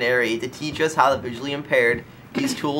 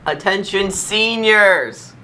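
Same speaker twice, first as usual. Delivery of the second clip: announcer call; 7 semitones higher, much slower than usual. Real, not acted. Calling the seniors to attention.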